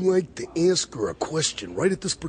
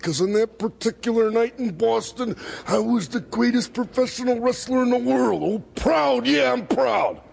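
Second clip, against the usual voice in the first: wrestling promo. Real, not acted. Macho Man cutting a promo.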